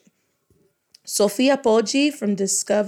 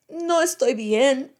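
second character voice; 5 semitones higher, slower than usual. Pretend. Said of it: "by changing my voice".

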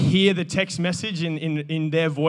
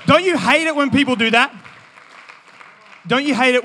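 mock exasperation; 5 semitones higher, 6 dB louder than usual. Real, not acted. Rhetorical exasperated question.

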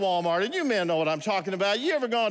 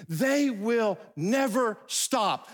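very slow, raised pitch, each word of "they will never stop" separate; emphatic punchline; 4 semitones higher, much slower than usual. Real, not acted. Preacher warning men about women, drawn-out emphasis on "never stop". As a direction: hammer out NEVER and STOP with big gaps.

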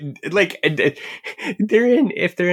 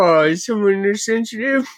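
teasing; 8 semitones higher than usual. Real, not acted. Teasing the co-host.

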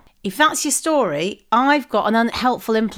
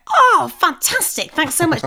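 gushing thanks; 5 semitones higher than usual. Retold or imitated. Acting out gushing politeness to server.

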